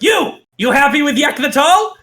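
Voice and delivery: high-pitched goblin boss demanding an answer; imperious goblin king's pointed question; Yek. Acted. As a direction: put an underling on the spot, pitch well up. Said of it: "Yek points at a random goblin and goes".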